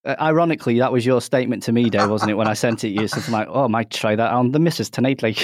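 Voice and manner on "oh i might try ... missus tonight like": poorly imitated Geordie; bad Geordie accent. Host quoting his co-host's text message, bad Geordie accent. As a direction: have a clumsy go at Geordie. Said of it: "I can't do a Geordie accent".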